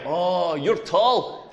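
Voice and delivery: understated imitation of a stranger; lightly voiced passing observation; stranger's remark. Girl in the queue to the tall comedian, mildly struck.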